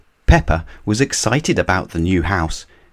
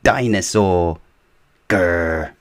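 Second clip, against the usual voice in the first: put-on toddler George; slower than usual. A narrator's reading. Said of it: "he could say one word very well".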